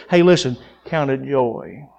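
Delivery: quiet, earnest "Hey, listen, count it joy"; low and sincere, no irony at all. Acted. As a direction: say it gently, as plain truth. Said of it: "He's saying with truth".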